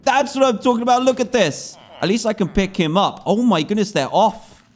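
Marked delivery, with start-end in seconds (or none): 0.1-1.8 laughing in disbelief at a discovery; bubbling over with a laugh; laughing excitement. Real, not acted.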